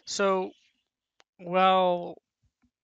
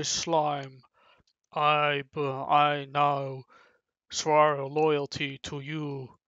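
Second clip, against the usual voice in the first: louder, mock-heroic vow of loyalty; proud loyal oath; 4 dB louder, slower than usual. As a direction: swear your oath like a newly strong warrior. Goblin swears loyalty after transforming.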